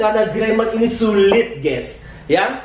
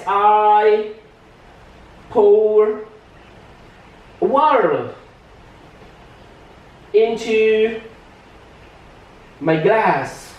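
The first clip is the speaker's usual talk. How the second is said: "I... pour... water... into... my glass" with long pauses between words; slow teacher's dictation, each word stretched out; word-by-word demo; much slower than usual. Shown as a demonstration. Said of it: "contoh gini". (diucapkan pelan, kata demi kata)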